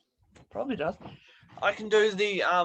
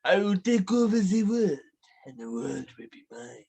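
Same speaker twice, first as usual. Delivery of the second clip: villain voice. Retold or imitated. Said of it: "impression round, villain".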